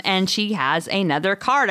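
ordinary delivery

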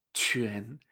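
QUAN as "chü-en", soft, rising; correct pronunciation. Shown as a demonstration. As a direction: model QUAN low, then lift into second tone. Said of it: "sino que es".

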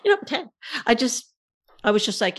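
high laughing voice. Real, not acted. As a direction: squeak it out laughing.

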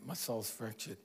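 low, soft admission of brokenness; a touch of weary despair; quiet despair. Retold or imitated. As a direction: say it like it hurts to admit. Voicing a person's inner despair.

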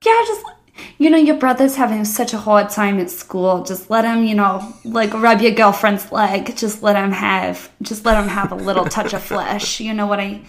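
loud, mocking New Jersey accent. Mocking the parents' excuses for the brother, loud New Jersey accent. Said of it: "I'm taking a New Jersey accent".

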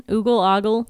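"Oogle" with oo as in "boot", then "ogle" with o as in "odd"; two pronunciations. Shown as a demonstration. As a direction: contrast "Oogle" OO-gul and "ogle" AH-gul. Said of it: "write in".

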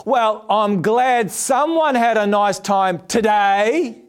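slow, pointed "today" leaned on hard; drawn-out jab landing on "today"; sarcastic stress on today. Retold or imitated. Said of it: "Emphasis on the today".

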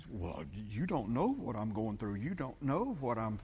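mock plaintive swooping protest; complaining objector. Church member protesting what they are going through, mock plaintive. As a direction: imitate someone pleading their hardship. Voices a self-pitying objector.

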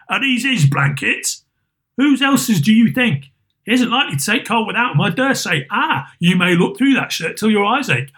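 put-on high, grasping old charwoman. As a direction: crow over the dead man's shirt like a greedy old woman. Charwoman at Scrooge's deathbed.

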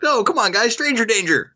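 high-pitched pleading protest; mock-exasperated warning, pitched well up. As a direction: plead with them as if they should know better. Mock warning to blindly trusting child.

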